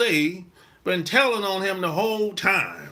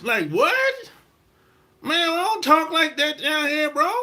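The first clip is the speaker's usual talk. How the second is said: high, indignant disbelief; incredulous protest; 9 semitones higher, 3 dB louder than usual. Retold or imitated. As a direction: object like you can't believe your ears. Outraged reply to the quoted slang.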